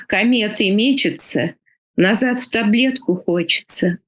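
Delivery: measured poetry reading, pausing between lines; poem recitation. Acted. Poet reads a short Russian poem aloud to the interviewer, reciting. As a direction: recite it line by line in a poet's cadence.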